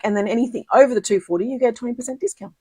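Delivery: quick, rushed run through the details; talking too fast. Real, not acted. Crafter explaining the joining discount to viewers, talking too fast. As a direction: rattle it off a little too fast. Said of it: "I'm talking too fast".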